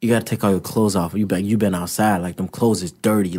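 low, soft, matter-of-fact retelling; understated excuse, voice dropped well down; subdued retold objection. Boxer retelling his excuse about dirty clothes, subdued.

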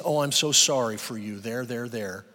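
a hint of hollow pity; mildly voiced condescending sympathy; mock pity. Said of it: "That's pity".

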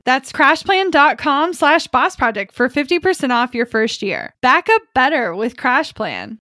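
upbeat sponsor read, punchy. Acted. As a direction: sell it like a podcast ad. Host reads sponsor ad.

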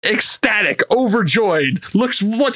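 ordinary delivery

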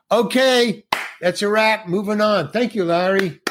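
lightly acted director wrapping up the shoot; director calling wrap. Director calls a wrap on set.

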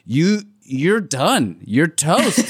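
slow, deadpan verdict. Retold or imitated. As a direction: draw out the doom slowly. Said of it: "I was like".

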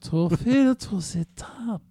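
sexy voice. Pretend. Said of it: "In a sexier voice".

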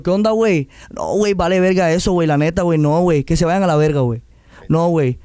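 lightly put-on Mexican slang lilt; Mexican accent. Showing the host how Mexican talk rubs off, Mexican accent. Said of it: "se me pega".

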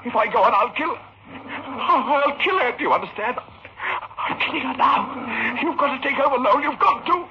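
breaking, desperate panic; plead, losing control of his nerves; panicked. Acted. Surgeon panics over operating on his wife. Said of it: "I'm trembling all over".

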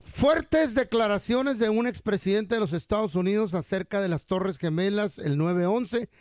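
mock TV news headline; news read. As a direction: read it as a newscast teaser. Performs a mock news teaser.

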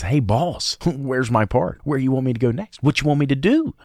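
high-pitched eager junior technician pestering the boss; little technician Timmy. Acted. Technician asking the boss for his next job, high-pitched little Timmy voice. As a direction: pipe up high, each question lifting at the end. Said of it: "here comes little technician Timmy".

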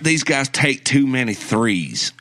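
Roberson said as "Robberson"; mispronounced surname. Acted. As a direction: say Roberson with "rob" as the first syllable. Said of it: "in a Southern accent".

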